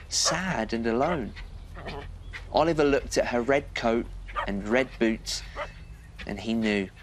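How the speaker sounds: gentle, lively bedtime story read; cosy storyteller voice for a little one; reading to children. A narrator's reading.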